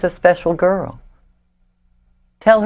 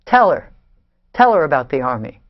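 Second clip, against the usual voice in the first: louder, clipped insistence; angry outburst; 3 semitones lower, 3 dB louder than usual. Acted. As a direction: fling the words back at them in anger. Outburst ending the family argument.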